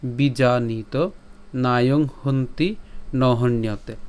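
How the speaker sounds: measured Sanskrit recitation, each word drawn out; slow devotional reading; slow verse recitation. Shown as a demonstration. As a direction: chant the shloka slowly and evenly.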